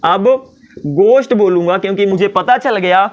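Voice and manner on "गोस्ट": "गोश्त" as gost, plain G; silent H. Shown as a demonstration. Teacher as student repeats correct word, H silent in "गोश्त". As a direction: keep all breath out of the G in "गोश्त". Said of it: "एच silent हो जाता है".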